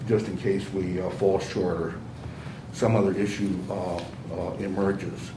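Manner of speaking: speaking through a thick mask; muffled voice. Real, not acted. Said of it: "the muffled voice that everybody's hearing".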